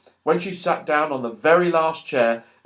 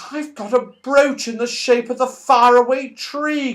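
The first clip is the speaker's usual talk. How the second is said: higher, brighter happy cry; excited cry; 8 semitones higher, 4 dB louder than usual. Acted. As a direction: show off your new brooch. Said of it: "cried Fanny".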